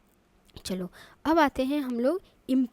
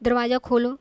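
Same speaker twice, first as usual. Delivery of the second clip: firm order; 5 dB louder than usual. Shown as a demonstration. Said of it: "किसी को order भी लग सकता है".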